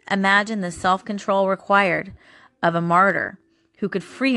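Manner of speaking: measured, earnest reading of a scripture passage; devotional reading. Acted. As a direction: read it like a devotional to your viewers. Reads a devotional passage aloud.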